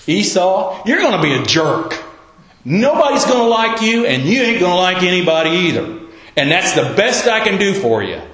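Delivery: father bluntly telling Esau his fate; blunt paraphrase. Retold or imitated. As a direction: say it plain and blunt like a modern dad. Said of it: "Translated into English of our day is".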